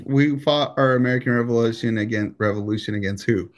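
talking through a mouthful; chewing blueberries while talking; mouth full. Real, not acted. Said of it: "my excuse is I had food in my mouth".

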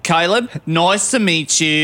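put-on Australian accent. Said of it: "by your accent that you're from Australia".

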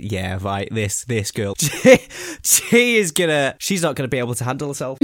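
sarcastic, laughing through the words; laughing sarcastic aside. Retold or imitated. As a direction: scoff at her, laughing. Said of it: "I was thinking".

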